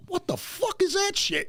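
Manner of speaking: very high-pitched mock disbelief; retold outrage. Friend retells his reaction as Glenn walked away, mock outraged. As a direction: blurt it in exaggerated indignation.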